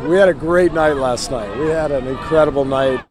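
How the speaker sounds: tired, groggy morning-after voice; hungover. Real, not acted. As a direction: speak like you drank too much last night. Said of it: "I'm hungover right now".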